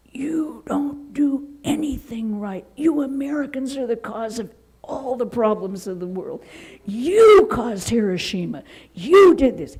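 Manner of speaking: imitating a furious swami yelling, rising to a big shout; retold screaming. Swami screaming at a monk in the hallway, building to a booming shout. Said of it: "he was screaming at him".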